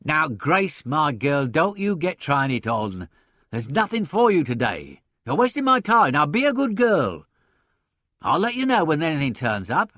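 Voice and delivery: loud, high, bossy impresario; hectoring boss. A narrator's reading. Stout impresario dismissing hopeful actresses, hectoring. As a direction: brush off each applicant breezily and loudly. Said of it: "at variance with his hectoring voice".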